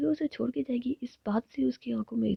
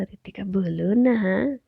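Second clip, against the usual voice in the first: whiny pleading; 7 dB louder, much slower than usual. Acted. Pleading to be told.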